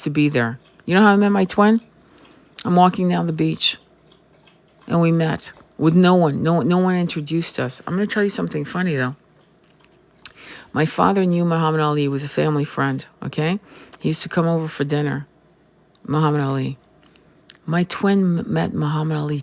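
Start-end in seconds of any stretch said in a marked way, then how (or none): none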